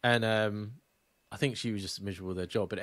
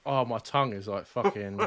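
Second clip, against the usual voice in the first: mouth full of hot food. Real, not acted. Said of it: "My mouth is on fire".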